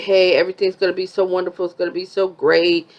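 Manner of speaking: fast, gushing mock excitement; a hint of a giddy girlfriend, quick and bubbly; excited Brittany. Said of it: "But Brittany got excited. She's like".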